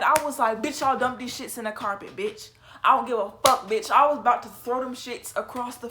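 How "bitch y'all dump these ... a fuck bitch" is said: retold angry outburst. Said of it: "And I was getting mad".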